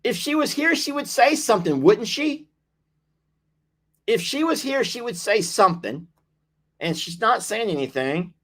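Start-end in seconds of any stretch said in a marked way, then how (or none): 0.0-6.1 puzzled high. Real, not acted.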